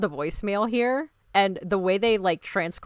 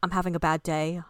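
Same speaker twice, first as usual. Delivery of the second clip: lightly put-on British accent; a badly faked British accent, a little lower; 3 semitones lower, 4 dB quieter than usual. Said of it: "my really bad British accent".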